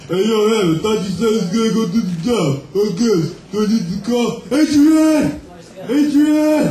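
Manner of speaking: lightly voiced tough Italian guy; Sylvester Stallone. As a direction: yell Adrian like Rocky. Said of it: "Sylvester Stallone is the ghost".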